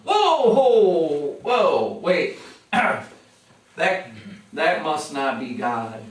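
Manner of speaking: loud, high whoa of alarm; startled balking. Retold or imitated. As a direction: back off in a panic. Believer balking at God's call.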